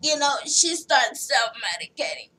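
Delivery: lightly imitated hoarse smoker; Big Ange. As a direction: put on a throat-straining smoker's rasp. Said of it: "slow down on the cigarettes".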